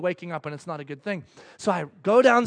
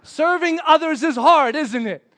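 louder, higher, slow teasing remark; big, drawn-out knowing voice; God's audible voice; 7 semitones higher, 9 dB louder, slower than usual. Retold or imitated. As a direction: proclaim it slowly, then ease off. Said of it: "Just like that".

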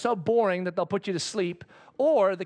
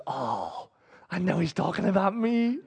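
smug aside; 3 semitones lower than usual. Retold or imitated. Haman smug to himself.

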